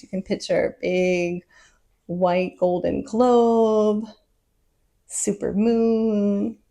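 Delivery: calm meditation guidance, stretched words and long pauses; guided visualization. Real, not acted. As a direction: let them settle into the sensation.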